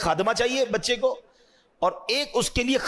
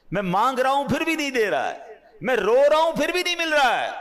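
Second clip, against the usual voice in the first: anguished pleading; 6 semitones higher than usual. Pretend. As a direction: plead higher and harder with each line. A believer pleading in vain.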